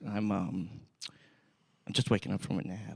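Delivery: groggy, halting mock sick voice; imitating sounding terrible. Retelling a sick friend's phone call, mock groggy. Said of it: "he sounds terrible on the phone".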